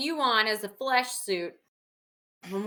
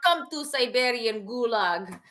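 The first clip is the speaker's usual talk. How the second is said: put-on Russian accent. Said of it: "now we're Russian vampires".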